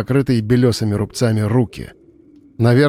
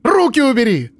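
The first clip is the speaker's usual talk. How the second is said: furious cry; 11 semitones higher than usual. Acted. Miroslava screams at Frost to take his hands away, furious. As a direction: snap at him with fury. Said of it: "Она сорвалась на яростный крик".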